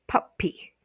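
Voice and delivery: whispered syllable demo, "puppy" split pup-py. Shown as a demonstration. Teacher whispers the split to students. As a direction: breathe it out, "puppy" in two beats. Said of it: "split between the two like consonants".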